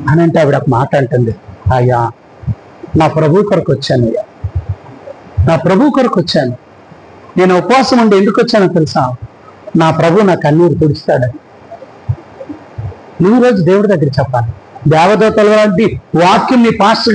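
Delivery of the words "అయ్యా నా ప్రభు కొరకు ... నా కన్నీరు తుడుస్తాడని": grieving woman. Acted. Weeping Mary answers the angel. (దుఃఖంతో జవాబు)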